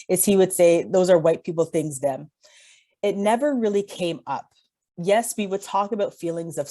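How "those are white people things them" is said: light Jamaican accent, imitating dad; a hint of a Jamaican dad's voice. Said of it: "my terrible Jamaican accent".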